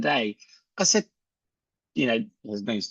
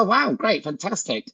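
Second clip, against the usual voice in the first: mock delight; 5 semitones higher than usual. Acted salesman enthusiasm to prospect.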